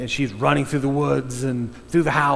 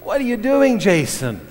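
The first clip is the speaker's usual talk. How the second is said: higher, louder fed-up film director scolding; exasperated director; 7 semitones higher, 5 dB louder than usual. Retold or imitated. Director scolding Jason for tipping the canoe, exasperated and loud. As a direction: play the frustrated director yelling at his actor. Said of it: "And the director said".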